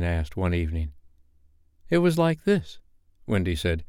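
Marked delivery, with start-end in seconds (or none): 1.9-2.8 demonstrating mother. A narrator's reading. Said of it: "trying to imitate Peter's crow".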